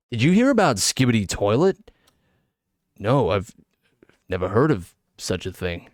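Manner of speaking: two Californian podcast fellas trading theories; lightly put-on Californian accent, measured delivery. Streamer imitating theory podcast guys, Californian accent. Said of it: "Californian sounding fellas".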